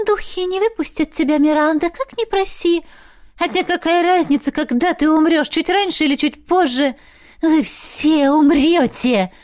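high, far-off gleeful ghost voice, slowing at the end; a little ghost relishing their doom; gloating ghost Missi. A narrator's reading. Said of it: "Она злорадно улыбнулась". (злорадный высокий голос привидения)

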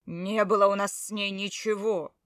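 loud angry growl. A narrator's reading. Husband denying the affair to his wife, loud growl. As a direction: growl the denial. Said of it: "прорычал он".

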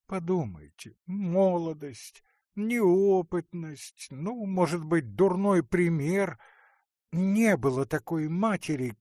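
aunt begging forgiveness for the wife; tearful aunt pleading. Acted. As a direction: soften him with a near-tearful plea. Marya pleads, tears welling.

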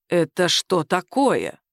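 low, slow suspicious question; slow, deliberate. Acted. Boss questions Sima about the card, slowly. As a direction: ask slowly, heavy with suspicion. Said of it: "медленно произнёс".

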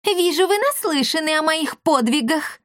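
smug. A narrator's reading. Girl boasting of her exploits to the travellers, smug. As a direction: savour your own fame. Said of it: "самодовольно ухмыльнулась".

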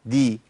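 دي as "di"; dal with kasra. Shown as a demonstration. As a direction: sound دي as d plus "i". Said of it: "الدال المحركة بكسر". (دي بدال مكسورة)

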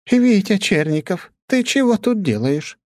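high, slow astonished question; astonished to find him here; astonished old lady. A narrator's reading. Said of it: "спросила она". (удивлённо и медленно, высоким голосом)

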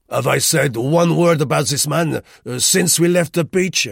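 put-on loud, high French-accented man; a touchy Frenchman protesting to his woman; Rue, irritated Frenchman. A narrator's reading. Voices Rue in story.

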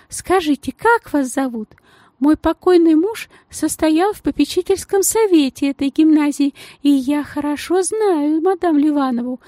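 gushing society lady in a tiny high voice; thin high voice. Acted. The lady gushes.

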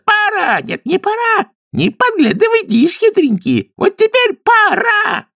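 high squeaky game call, ending in a shout; playful kikimoras. A narrator's reading. Kikimoras call a hiding game, squeaking high. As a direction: squeal the countdown gleefully. Kikimoras play hide and seek.

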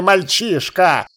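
slow, contemptuous elf voice; sneering elf lord. A narrator's reading. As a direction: spit the word at the boy. (презрительный эльф)

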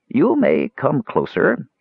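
slow, high, sad invitation; sorrowful hedgehog. A narrator's reading. Hedgehog lord letting visitors come closer, sorrowful. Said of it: "held the same sorrow as had the hedgehog's".

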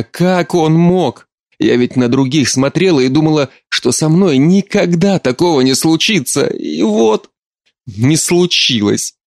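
mother grieving to her daughter, tearful lament. Acted. Mother weeping about betrayal.

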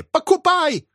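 very high, drawn-out shriek; shrieking old woman. Acted. Possessed old woman screaming from the house for food. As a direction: howl it like a possessed hag. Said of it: "вопили в доме".

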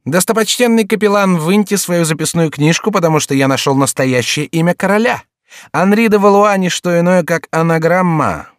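high, grandly declaiming court fool; jester proclaiming. A narrator's reading. Jester announcing the king's true name, high mock proclamation.

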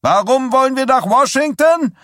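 a demagogue bellowing to a cheering crowd. A narrator's reading. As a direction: roar it at the crowd like a revival preacher. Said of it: "brüllte Stilson".

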